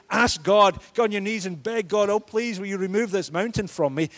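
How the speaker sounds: mock pleading prayer. Mock begging prayer quoted.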